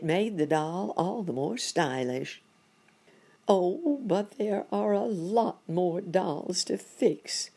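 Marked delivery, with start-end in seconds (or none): 3.5-7.5 high, slow wail; high-pitched, drawn-out storybook lament; fretful cry. A narrator's reading. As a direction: cry it as the overwhelmed monkey. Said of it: "cried Monkey Doctor".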